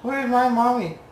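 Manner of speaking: high, small kitten voice; high-pitched pretend baby-animal voice; voicing the confused kitten. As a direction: ask as a lost little kitten. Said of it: "He's like".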